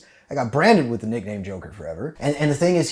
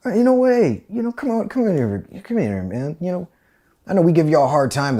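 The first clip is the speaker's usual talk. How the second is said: mock friendly drill sergeant, higher; a drill sergeant playing nice; 5 semitones higher, 4 dB louder than usual. Drill sergeant sweet-talking the recruits, mock friendly.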